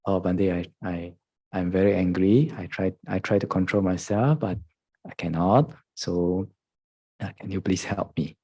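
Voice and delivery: soft, honest plea for help; a hint of a humble student asking. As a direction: confess it softly and sincerely. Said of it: "be honest and say".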